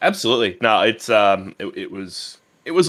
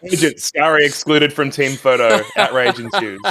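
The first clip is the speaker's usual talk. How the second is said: mock outraged headline; 3 semitones higher than usual. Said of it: "this is your little rant saying".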